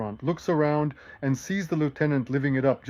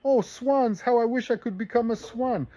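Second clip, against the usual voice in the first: much higher, swooning lady's voice; high dreamy Natasha; 8 semitones higher than usual. Acted. Natasha in the boat sighing to the lieutenant, high and dreamy. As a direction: sigh it out like a romantic young lady. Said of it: "And Natasha Rostova goes".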